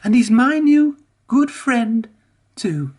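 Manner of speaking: high, bubbly engine voice; happy Emily. A narrator's reading. Emily proudly calls Whiff her friend, high and bubbly. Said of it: "bubbled Emily happily".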